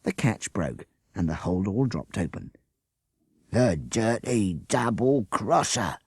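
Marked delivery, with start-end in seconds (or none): 3.5-6.0 slow, bitter snarl. Acted. Bert cheated by his crony, a slow snarl. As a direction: drag out each word in disgust. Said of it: "Bert snarled".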